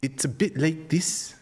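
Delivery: put-on slow, light Kiwi accent; a tentative go at New Zealand. Streamer demos a New Zealand accent, slow and light. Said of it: "New Zealand".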